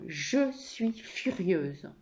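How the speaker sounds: slow, emphatic statement of fury; furious. Acted. Wife owning her anger to husband, furious. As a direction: spell out the anger slowly. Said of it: "moi je suis furieuse".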